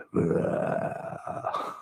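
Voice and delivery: sinister breathy chuckle; eerie whispered laugh; creepy low laugh. Acted.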